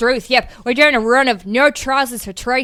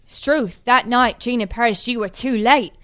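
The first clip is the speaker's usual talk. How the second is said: put-on Australian accent. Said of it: "an Australian accent".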